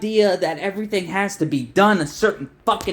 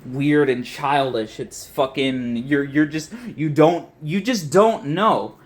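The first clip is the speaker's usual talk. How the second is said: mock snob; 5 semitones lower than usual. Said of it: "be like".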